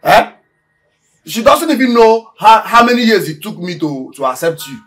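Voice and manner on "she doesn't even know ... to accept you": indignant complaint, pitched up and loud at the start; aggrieved outburst. Acted. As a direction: pour out the grievance, starting high. Aggrieved man in acted quarrel.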